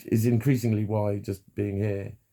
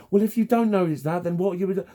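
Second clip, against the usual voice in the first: demanding; 10 semitones higher, 4 dB louder than usual. Retold or imitated. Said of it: "and they get demanding".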